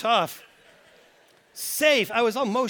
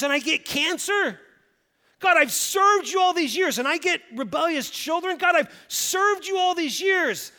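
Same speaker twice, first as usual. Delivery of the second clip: bitter complaint; 6 semitones higher than usual. Acted. Voicing a bitter believer's complaint.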